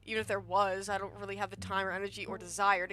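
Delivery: lightly voiced weary, dismissive woman; dismissive Tabitha.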